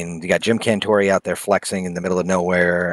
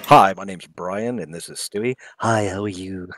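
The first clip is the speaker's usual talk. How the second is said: a hint of Brian from Family Guy; Brian Griffin voice; 2 semitones lower than usual. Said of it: "the Seth MacFarlane voice".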